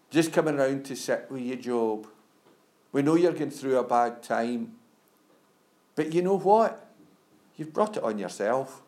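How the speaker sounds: put-on a light Scottish accent for Job's smug comforters; lightly voiced Scottish comforter, sympathetic then blunt. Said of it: "I put a Scottish accent on for those comforters".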